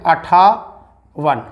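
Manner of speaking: each syllable slowly drawn out; slow dictation. Shown as a demonstration. Teacher dictating numbers to students, slow and drawn out. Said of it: "इसे कहते हैं".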